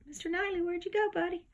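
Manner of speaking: high sweet pet-talk, calling out for the cat. Real, not acted. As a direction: coo for your cat where he's hiding.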